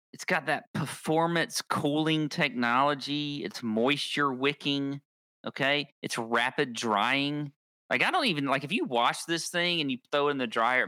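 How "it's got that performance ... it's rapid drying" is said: ad read. Acted. Reads sponsor ad copy.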